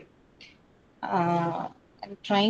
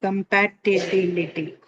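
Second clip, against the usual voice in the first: syllable by syllable; slower than usual. Shown as a demonstration. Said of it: "It should ideally be on bill".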